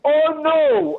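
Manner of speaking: high, amused exclamation; surprised laugh. Real, not acted. Reacting to the host's horn question, amused and high. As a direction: cry out amused. Asked if show has horn.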